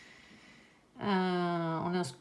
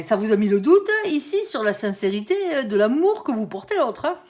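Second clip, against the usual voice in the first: ordinary talk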